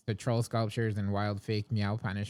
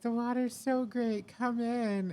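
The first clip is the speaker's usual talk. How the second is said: influencer voice; 13 semitones higher than usual. Retold or imitated. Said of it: "But she's like".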